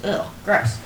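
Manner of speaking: annoyed ugh. Acted. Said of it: "I'm not sleeping with one of these fools".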